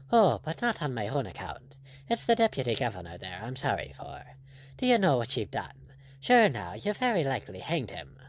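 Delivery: lightly voiced, easygoing buccaneer; a hint of a composed pirate captain; unruffled pirate captain. Blood answering the angry lord, lightly voiced and unruffled.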